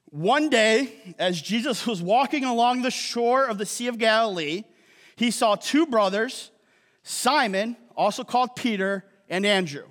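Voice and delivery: measured Bible reading to the congregation; scripture reading. A narrator's reading. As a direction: read it out clearly, phrase by phrase. Reads scripture aloud to congregation.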